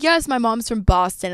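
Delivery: lightly put-on Boston accent; imitated Boston accent. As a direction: slip into a bit of Boston. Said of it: "going off on this Boston shit".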